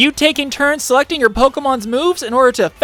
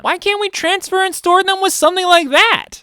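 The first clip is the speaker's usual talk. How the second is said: put-on disappointed kid voice; 4 semitones higher than usual.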